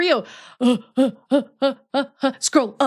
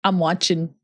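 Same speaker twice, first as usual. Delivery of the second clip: creepy low voice; 6 semitones lower than usual. Pretend. Creepy lowered voice.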